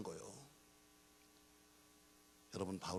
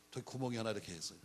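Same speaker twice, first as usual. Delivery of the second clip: normal talking voice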